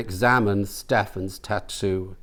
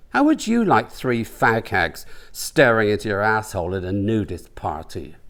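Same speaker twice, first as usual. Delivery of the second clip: a hint of an embarrassed huff; indignant rant. Stefan rants to Brian walking home, indignant.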